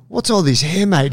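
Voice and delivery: lightly voiced physio; a hint of the gym guy; quoting the physio. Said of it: "he's like".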